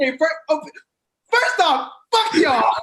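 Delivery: mock strained, high-pitched yell.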